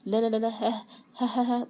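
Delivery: acted, spoken-out hysterical laugh; hysterical laughter. A narrator's reading. A betrayed son laughing at his father, hysterical. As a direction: laugh in disbelief, syllable by syllable. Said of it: "وقعد يضحك ضحك هستيري".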